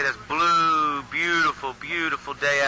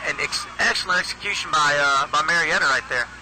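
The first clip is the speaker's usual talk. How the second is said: excited; 3 semitones higher than usual. Real, not acted. Praising the touchdown play.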